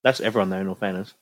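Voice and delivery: eating while talking; mouth full. Real, not acted. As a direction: talk through a mouthful. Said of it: "Sorry, I'm still eating".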